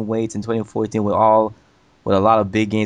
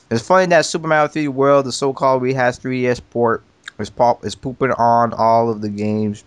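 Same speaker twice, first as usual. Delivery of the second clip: talking while munching crackers; words round a mouthful of crackers; eating crackers. Real, not acted. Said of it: "I'm eating crackers right here".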